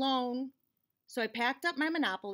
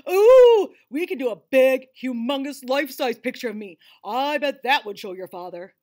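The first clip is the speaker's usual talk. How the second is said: thrilled Ted voice; 14 dB louder than usual. Acted. Ted pitches a giant self-portrait, loud and thrilled. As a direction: burst out with a big idea.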